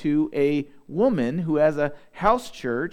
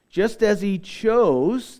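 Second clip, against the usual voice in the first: slow, higher lead-up landing hard on "chose"; "chose" stretched for emphasis; stress on chose; 5 semitones higher, 4 dB louder, slower than usual. Real, not acted. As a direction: draw out and punch the word "chose". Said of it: "I want to emphasize that word".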